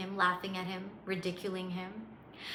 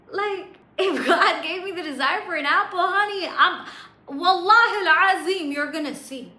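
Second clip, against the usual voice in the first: acted, emphatic self-assurance; smug conviction; 5 semitones higher, 7 dB louder than usual. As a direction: swell from cocky to fervent, playing the believer. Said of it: "with a smug smile on his face".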